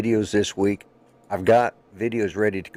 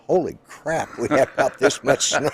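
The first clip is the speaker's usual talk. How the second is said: high, excited exclamation; suddenly amazed, voice jumping up; excited surprise; 6 semitones higher than usual. Real, not acted. Surprised at snowfall out window.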